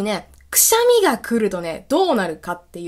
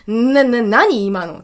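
stammering, a bit louder, startled; 5 dB louder, much slower than usual. Retold or imitated. Gorilla-senpai startled by her scream, mild stammer. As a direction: stutter the first word in shock. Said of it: "ゴリラ先輩めっちゃびっくりしてました".

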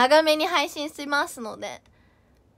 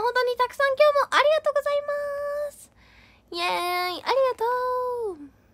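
cutesy excited thanks; 8 semitones higher than usual. Acted. High cutesy thank-you.

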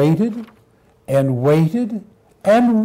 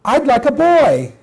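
high, firm little puppy; insistent puppy; 6 semitones higher than usual. Acted. Puppy turns down mother's goldfish, insistent puppy voice. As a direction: refuse stubbornly in a puppy voice.

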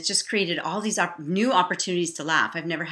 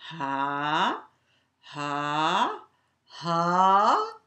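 ha's building louder and higher into a burst of laughter; balloon popping laughter; 6 semitones higher, 11 dB louder, much slower than usual. Shown as a demonstration. Teacher leads balloon popping laughter, building to loud laughing. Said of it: "balloon popping laughter".

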